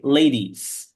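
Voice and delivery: "ladies" with a clear S ending, said as a z sound; emphasized final S. Shown as a demonstration. Teacher correcting a dropped plural, "ladies" with emphasized final S. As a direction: bring out the last sound of "ladies". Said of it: "emphasis here on these letters".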